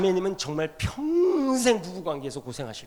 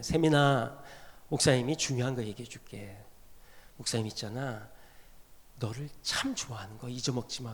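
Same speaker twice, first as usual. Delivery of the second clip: put-on gentle talk to a child; 8 semitones lower, 7 dB quieter than usual. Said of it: "세민이한테 그날".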